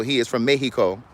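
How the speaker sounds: jokey fake Mexican accent on Mexico; lightly put-on Mexican accent, Mexico as mehiko. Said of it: "That was my fake ass accent".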